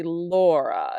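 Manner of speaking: "Laura" stressed on the first syllable; LAU-ra, heavy start and soft end on "Laura". Shown as a demonstration. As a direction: lean on the first beat of "Laura". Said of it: "it goes heavy, soft instead of soft, heavy".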